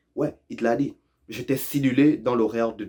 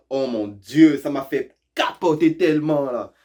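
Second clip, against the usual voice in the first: a hint of someone freaking out, pitch raised; mock excitement; 2 semitones higher, 4 dB louder than usual. Learner overhears someone excitedly freaking out, mock excitement. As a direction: play up the shock lightly. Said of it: "si t'entends quelqu'un dire".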